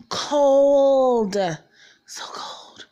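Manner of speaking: shivering whisper of cold; so cold it drops to a whisper. Retold or imitated. Waking up cold on the floor, whispered.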